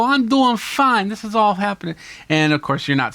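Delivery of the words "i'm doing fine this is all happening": playful interviewer reply. Acted. Vlogger replying to his guest in a lightly higher jokey voice. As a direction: bounce the answer back lightly. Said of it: "I come back and go".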